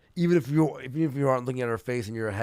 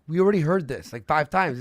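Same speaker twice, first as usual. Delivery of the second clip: mad; 3 semitones higher, 6 dB louder than usual. Retold or imitated. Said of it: "knowing that she's mad".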